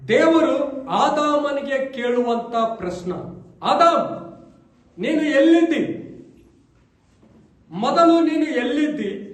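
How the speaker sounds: steady, fervent sermon delivery; preaching. Acted. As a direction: preach it to the congregation, speaking as God to Adam. Pastor preaching on Adam.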